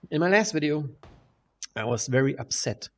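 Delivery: speaking in a bare echoing room; echoey room. Real, not acted. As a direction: room echo around the voice. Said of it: "if I sound echoey".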